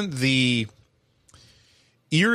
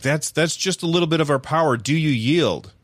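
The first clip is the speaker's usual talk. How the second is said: higher-pitched mock challenge from a little penguin; defiant penguins; 5 semitones higher than usual. Penguins challenging Bowser after their snowball attack, higher mock-defiant voice. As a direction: voice a small creature demanding surrender, pitched up. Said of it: "the penguins are like".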